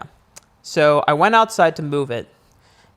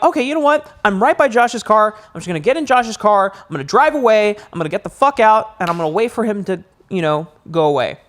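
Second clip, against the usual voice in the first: panicked inner voice; 5 semitones higher than usual. Retold or imitated. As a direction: talk yourself into fleeing, scared. Panicked inner voice near stranger.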